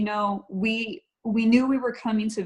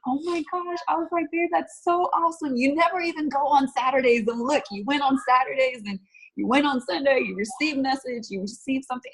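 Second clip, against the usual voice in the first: much higher, bright rush of joy; excited; 5 semitones higher than usual. Retold or imitated. Wife hears husband's prayer story, excited and overjoyed. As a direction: gush over his good news. Hearing husband's moving news.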